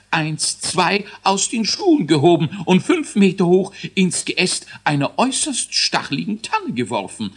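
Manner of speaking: high, squeaky scientist dwarf counting down; a fussy little boffin announcing launch; learned dwarf voice. A narrator's reading. Dwarf scientist starts the rocket countdown, high and squeaky. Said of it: "jammerte Elisius".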